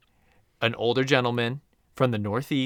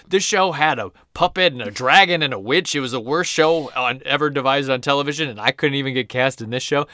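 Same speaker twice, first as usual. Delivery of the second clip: mocking complaint; 3 semitones higher, 5 dB louder than usual. Rejected actor makes fun of soap opera, mock indignation. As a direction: imitate an actor ridiculing a silly show. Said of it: "He makes fun of it".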